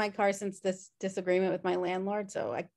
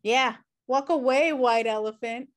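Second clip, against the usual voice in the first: louder parting jab; taunting; 2 semitones higher, 5 dB louder than usual. Acted. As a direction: call it after him mockingly. Taunting the retreating bully.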